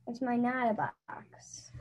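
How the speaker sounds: whispered like a secret, no voice. Acted. Child reading the kid part, repeating it as a secret whisper. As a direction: hush it to a breathy secret.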